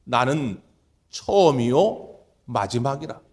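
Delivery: low, slow self-declaration; earnest God. Acted. God introducing Himself with longing, low and slow. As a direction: announce yourself with longing weight. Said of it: "애타는 마음으로 자기 자신을 소개하는".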